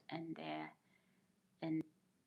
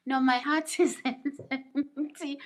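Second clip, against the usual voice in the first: laughing protest; 7 semitones higher, 9 dB louder, slower than usual. Real, not acted. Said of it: "Are we having language barriers here?".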